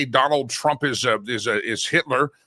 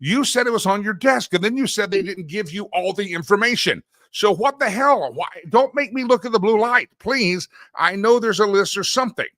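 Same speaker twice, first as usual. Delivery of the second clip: higher pleading protest, slowing on the key lines; exasperated public; 6 semitones higher than usual. Retold or imitated. Host voicing the public pleading with the attorney general, exasperated. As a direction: plead with her, fed up. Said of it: "we're all going".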